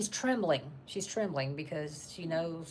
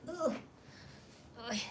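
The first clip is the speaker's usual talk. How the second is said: normal talking voice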